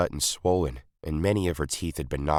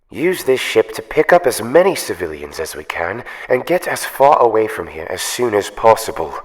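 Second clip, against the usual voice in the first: louder, urgent call; pressing orders over the line; urgent over the comm; 6 semitones higher, 9 dB louder than usual. A narrator's reading. Asuka urges evacuation through the communicator, urgent. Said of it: "Asuka said through the communicator".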